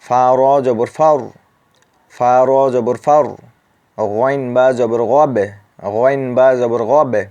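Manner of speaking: loud recitation, "ফাউর" with a full heavy r. Shown as a demonstration. Teacher reciting aloud for students, heavy r loud. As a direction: recite "ফাউর" loudly with the r rounded. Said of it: "অনুরূপভাবে এখানে".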